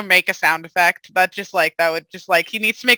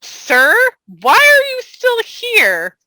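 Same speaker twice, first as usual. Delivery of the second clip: stern question; 13 semitones higher, 4 dB louder, slower than usual. Acted. Player character confronts lingering man.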